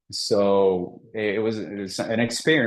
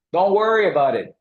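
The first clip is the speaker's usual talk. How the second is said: calm instructor; 9 semitones higher, 4 dB louder than usual. Retold or imitated. Instructor urging him on.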